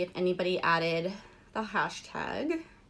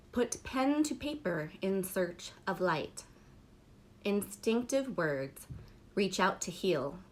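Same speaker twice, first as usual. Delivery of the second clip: unhurried poetry reading; poem recitation. Acted. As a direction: let each line of the poem land, then pause. Reads second poem aloud.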